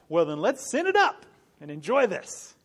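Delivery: mock the other side gleefully; mock sinner. Preacher mocking those who want to enjoy sin, hammed-up. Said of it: "the other side says".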